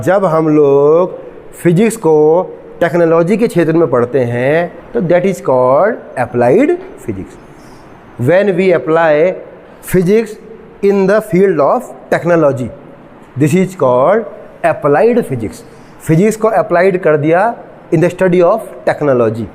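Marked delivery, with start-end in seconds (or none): 5.0-15.6 slow, drawn-out lecture definition; slow dictation. Shown as a demonstration. Teacher giving students a definition of applied physics, slow dictation. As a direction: stretch each phrase out for note-takers.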